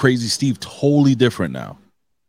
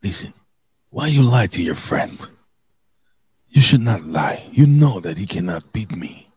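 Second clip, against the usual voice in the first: bad Russian accent. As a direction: imitate a Russian wrestler, accent wobbling. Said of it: "how to do a fucking Russian accent".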